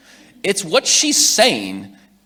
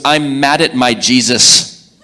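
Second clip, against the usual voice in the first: put-on slow child complaint; 7 dB louder, much slower than usual. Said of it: "She goes".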